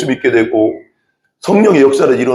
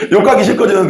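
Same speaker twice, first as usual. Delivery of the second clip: 욕하기 said through a real laugh, higher; laughing while repeating 욕하기 싫거든요; 6 semitones higher than usual. Real, not acted.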